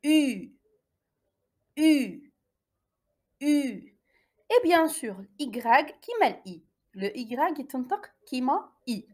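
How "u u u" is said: "U" as a drawn-out, falling French "ü"; practised French U. Shown as a demonstration. Teacher drilling a vowel needing practice, "U" as long "ü". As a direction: stretch "U" alone as a rounded ee. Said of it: "ممارسة".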